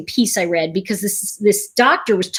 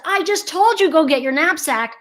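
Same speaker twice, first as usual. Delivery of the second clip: higher, exasperated mom repeating herself; impatient mom; 5 semitones higher than usual. Retold or imitated. Mom to distracted child, mock exasperated repeat. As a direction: sound fed up that you have to say it twice. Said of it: "the mom has now said".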